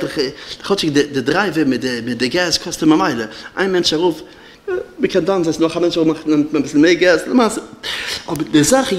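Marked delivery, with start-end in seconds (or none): 3.5-5.4 laughing while talking. Real, not acted.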